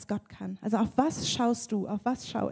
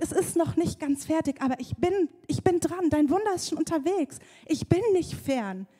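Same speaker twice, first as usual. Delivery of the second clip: reassuring God; 6 semitones higher than usual. Retold or imitated. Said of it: "Gott ist nebenan und der schüttelt das Fläschchen".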